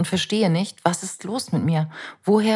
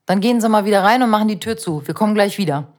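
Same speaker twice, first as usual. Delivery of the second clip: brisk, louder official command; firm police officer; 3 semitones higher, 3 dB louder, faster than usual. Retold or imitated. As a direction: order her back inside, fast. Police officer giving firm orders.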